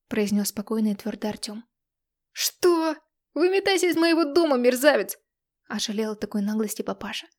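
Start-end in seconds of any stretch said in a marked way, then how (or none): 2.3-5.2 angry shout. A narrator's reading. Father throws out the man.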